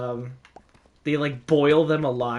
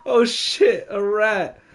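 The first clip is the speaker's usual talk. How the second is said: laughing exclamation; 6 semitones higher, 3 dB louder, slower than usual. Retold or imitated. Retold rat discovery.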